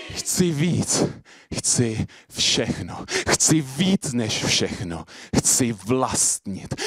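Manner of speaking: very slow, weighty slam delivery; deliberate poetic opening; slam poetry. Acted. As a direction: draw out each short phrase, with pauses. Performs slam poem on stage.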